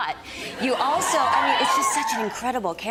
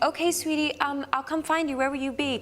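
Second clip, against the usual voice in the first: sweet husband imitation; 7 semitones higher than usual. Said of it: "He's like".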